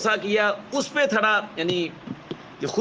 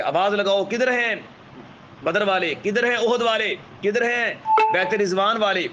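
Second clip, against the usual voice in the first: rallying battle call; 4 semitones higher than usual. Retold or imitated. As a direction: call the scattered companions back.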